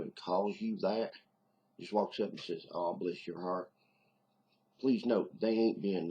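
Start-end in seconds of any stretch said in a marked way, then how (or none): 2.7-3.7 slow, polite put-down; politely condescending. Acted. Hillbilly walking up to someone doing something stupid, politely condescending. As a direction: draw it out with mock sympathy. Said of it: "They're just being polite".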